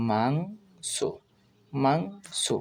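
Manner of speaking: মাংস with rising mang, soft detached so; full pronunciation. Shown as a demonstration. Teacher gives the full pronunciation, মাংস drawn out. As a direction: stretch the ng in মাংস, ending lightly. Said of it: "এর সম্পূর্ণ উচ্চারণ হবে".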